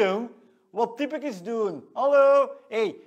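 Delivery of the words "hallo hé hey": much louder, higher, incredulous; loud indignant hello. Acted. Jordi indignant at Rick's impressions, loud high. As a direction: call out in mock disbelief.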